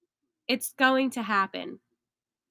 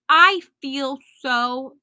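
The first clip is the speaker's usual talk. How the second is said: excited; 5 dB louder, slower than usual. Real, not acted. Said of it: "excited about this future".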